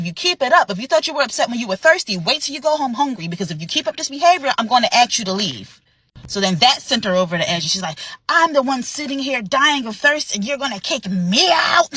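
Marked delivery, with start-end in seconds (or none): 0.0-5.8 stern warning. Retold or imitated. Manager warns the guest. 8.3-11.9 outraged cry. Retold or imitated. Guest erupts.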